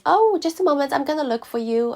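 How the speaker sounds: high, helpful receptionist lilt; clinic assistant. Retold or imitated. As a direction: imitate an obliging phone receptionist. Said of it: "And she said".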